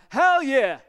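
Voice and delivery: loud, high, drawn-out whoop; rule-breaking cheer. Shown as a demonstration. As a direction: belt it out slowly and gleefully. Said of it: "we're gonna break the rule this morning".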